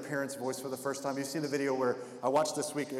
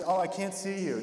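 mock fake-blind kid; 5 semitones higher than usual. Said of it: "Kids who pretend to be blind".

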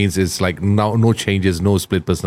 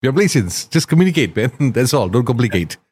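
higher-pitched mock-exasperated appeal; exasperated plea; 4 semitones higher than usual. Host retelling his plea to rappers faking accents, mock-exasperated. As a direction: plead with them, half laughing, in a raised pitch.

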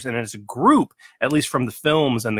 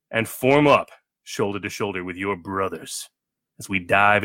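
dramatic announcer read; 3 semitones lower than usual. Acted. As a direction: read it like an epic opening crawl. Dramatic podcast intro read over music.

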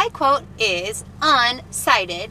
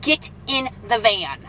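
stern, slow mom order; firm no-nonsense parent command; slower than usual. Acted. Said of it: "That's my mom voice".

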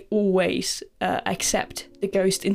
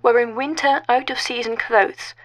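story narration; 2 semitones higher than usual. A narrator's reading. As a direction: read it like a told ghost story.

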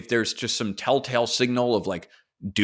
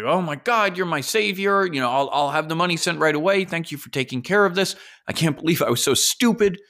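grateful target; 5 semitones higher than usual. Retold or imitated. Target thanking Epstein, relieved and gushing. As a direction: thank your savior in a rush.

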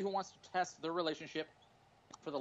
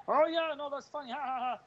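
high hollow fake laugh; fake polite laughter; 9 semitones higher, 3 dB louder than usual. Imitates fake audience laugh.

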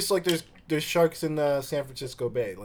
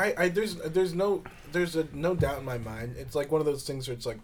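talking while crunching ice; words around a mouthful of ice; chewing ice; 2 semitones higher than usual. Real, not acted. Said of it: "I'm sorry, I'm chewing ice".

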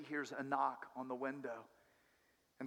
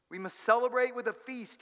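higher and louder festive call; joyful cry; 7 semitones higher, 5 dB louder than usual. Acted. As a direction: call out the feast with joy. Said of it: "he cried out".

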